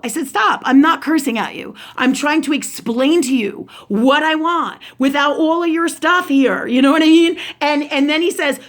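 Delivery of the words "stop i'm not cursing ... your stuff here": higher, insistent retold objection; heated, emphatic self-defence; exasperated protest. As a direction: re-enact explaining to someone who won't listen. Retold drive-thru quarrel.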